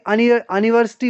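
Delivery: 'अनिवर्सिटी' with an initial short 'अ' sound in place of 'यू'; अ से शुरू उच्चारण. Shown as a demonstration. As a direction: say 'अनिवर्सिटी', opening on a short uh, not yoo. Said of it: "इसकी अ की sound आती है". ('अनिवर्सिटी' को 'यू' की जगह 'अ' की आवाज़ से शुरू करके)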